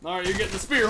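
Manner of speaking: usual speaking voice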